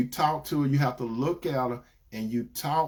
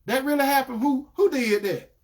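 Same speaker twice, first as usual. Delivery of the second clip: acted surprise; 9 semitones higher than usual. Man acting out interested listener.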